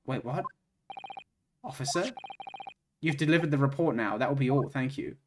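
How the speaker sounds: measured formal courtroom speech; game character voice. Acted. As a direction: read it as a stately judge, unhurried. Reads game character lines.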